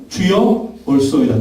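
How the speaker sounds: 주여 stressed, 올소이다 falling at the end; model line for repeating. Shown as a demonstration. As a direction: say 주여 firm, let 올소이다 fall. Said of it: "따라합시다".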